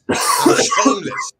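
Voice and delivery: a whispered squeak, high and slow; mock squeaky voice. Taunting Chelsea Dan, a high slow whispered squeak. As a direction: squeak it out like a cartoon.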